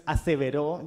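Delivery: "aseveró" with the accent landing on the final ó; stress on last syllable. Shown as a demonstration. Writer showing the broken music, "aseveró" stressed on last syllable. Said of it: "el acento está en la última".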